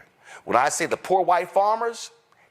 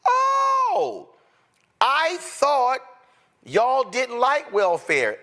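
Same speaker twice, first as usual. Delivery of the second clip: sarcastic; 7 semitones higher, much slower than usual. Real, not acted. Sarcastic jab at Republicans.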